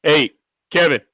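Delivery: usual speaking voice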